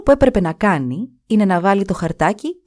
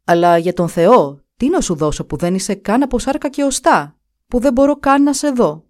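pleading; 4 semitones higher, 4 dB louder than usual. Acted. The Duke pleads with the invisible servant, building higher. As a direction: beg with growing urgency.

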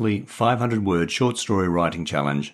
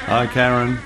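cheerful raised call, higher; 6 semitones higher, 4 dB louder than usual. Acted. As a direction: call out on coming in. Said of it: "Peter called out".

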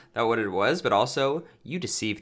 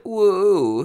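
nerdy woo; 10 semitones higher, 7 dB louder than usual. Pretend. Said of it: "I was more doing, like, a nerd thing".

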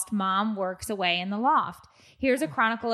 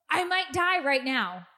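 1 laughing; 9 semitones higher than usual. Real, not acted. Laughing at husband's remark.

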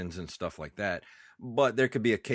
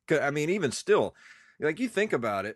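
stuffy nose, congested voice; 7 semitones higher, 4 dB louder than usual. Real, not acted. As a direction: talk through a blocked nose. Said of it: "I'm really congested today".

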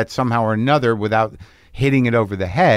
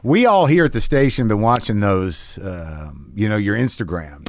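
radio host voice. Pretend. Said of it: "I'm still in character".

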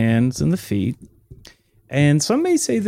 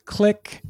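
phone click sound; 10 semitones higher, 3 dB quieter than usual. Acted.

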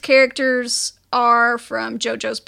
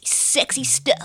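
whispered sultry; 3 dB quieter, slower than usual. Pretend. Whispering sexy.

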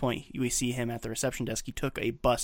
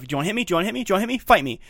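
repeated dare climbing higher and louder; goading; 7 semitones higher, 6 dB louder, much faster than usual. Retold or imitated. Drunk husband daring someone to fight, goading. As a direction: build from raised question to loud challenge.

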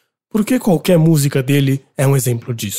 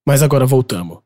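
usual speaking voice

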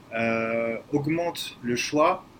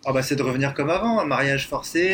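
mock nostalgia, pitched up and loud; sarcastic; 4 dB louder than usual. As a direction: ironic praise of the old ways. Mock praise of forced marriage.

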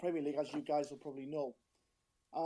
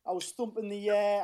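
excited shout; 2 semitones higher, 8 dB louder than usual. Real, not acted. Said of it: "I apologise for the shout".

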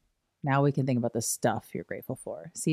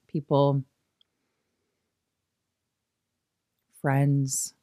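calm guide with long pauses between thoughts; guided meditation. Acted. Teacher guiding listeners through people they are grateful for, guided meditation.

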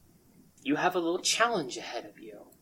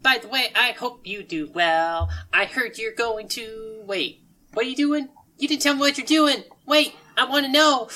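high voice, growing louder and more insistent; chipper nosy character; 11 semitones higher, 6 dB louder than usual. Acted. Sushi Kid calling after departing travellers, high and eager. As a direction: call after them brightly, then pester.

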